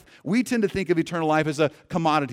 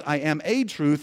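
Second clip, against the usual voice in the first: "a" stressed as a full "ay" before "truth". Shown as a demonstration. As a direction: punch "a" to mean one among many. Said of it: "So Jesus doesn't say".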